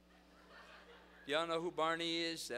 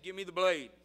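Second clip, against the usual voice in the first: raised, higher, louder order; firmer demand; 6 semitones higher, 11 dB louder than usual. Retold or imitated. Sunday school leader to kid with switchblade, firm loud demand. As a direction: press the demand hard.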